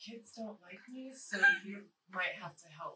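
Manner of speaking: soft whisper, off to one side. A role-player's character whispering an aside to a fellow player: whispering. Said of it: "so I whisper over here".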